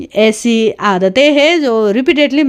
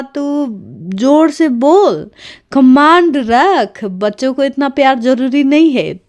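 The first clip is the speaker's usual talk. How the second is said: retold angry scolding; 3 semitones higher than usual. Husband scolding wife for not disciplining the kids, imitated rising mock anger. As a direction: replay his lecture, starting level and rising into a mock telling-off. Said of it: "mister साहब कोड़ा तो blast हो गए".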